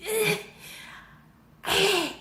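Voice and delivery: high mock sob; short, high whimpers imitating crying; imitated crying. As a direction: act out little crying noises. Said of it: "I started crying".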